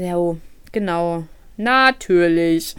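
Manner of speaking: mocking the bad luck before the interview; sarcastic "of course". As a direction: drawl it with sarcasm. Sarcastic inner reaction.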